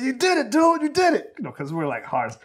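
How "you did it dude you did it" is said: much higher, louder cheering; excited praise. Retold or imitated. Director praising the crying kid actor, high loud excited cheer. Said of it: "I said".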